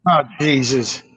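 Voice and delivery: ordinary talk, nothing marked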